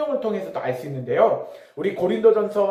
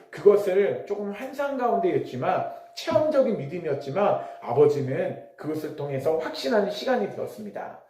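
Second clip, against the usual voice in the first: ordinary talk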